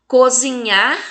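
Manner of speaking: "Cozinhar" with a loud final NHAR; emphatic NHAR in "Cozinhar"; tonic syllable stressed. Shown as a demonstration. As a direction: hit the last syllable of "Cozinhar". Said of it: "fala com mais intensidade".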